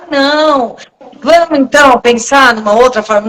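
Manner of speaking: pat yourself on the back and go easy; coaxing gently. Shown as a demonstration. Host showing the gentle self-talk she rejects, coaxing. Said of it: "se eu ficar me alisando".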